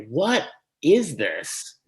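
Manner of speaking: baffled disbelief. Retold or imitated. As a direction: draw it out like you can't believe what you're seeing. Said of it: "you're just like".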